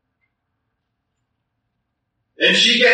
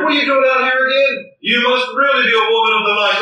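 accusing watchmen; 3 semitones higher than usual. Acted. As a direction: bark at her like a suspicious guard. Watchmen accosting the bride.

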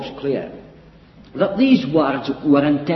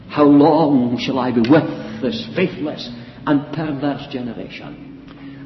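full of pathos, fading to a slow breathless whisper; sorrowful lament; 3 semitones lower than usual. Shown as a demonstration. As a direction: let the grief drain the voice away on the last word. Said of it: "One can observe the pathos".

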